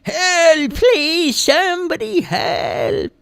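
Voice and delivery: high, loud, pleading cries, slow on somebody. A narrator's reading. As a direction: call out high, begging anyone to hear. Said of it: "the voice was getting louder and louder".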